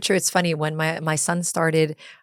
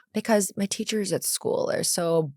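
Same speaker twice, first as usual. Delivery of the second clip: put-on high-pitched, excited kid pleading for more; 5 semitones higher than usual. Son begs mom for more time with fun teacher, eager and high. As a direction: imitate an eager child, pitch leaping up on the good part. Retelling her son's eager plea.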